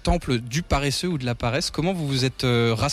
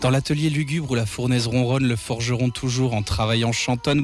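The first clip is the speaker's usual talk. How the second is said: poem recital; 4 semitones lower than usual. Acted. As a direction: read it like a dark ballad. Poem intro read over music.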